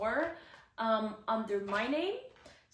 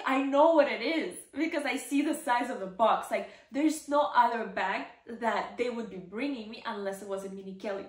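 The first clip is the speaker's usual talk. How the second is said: excited; 5 dB louder than usual. Retold or imitated. Her excited reply to staff.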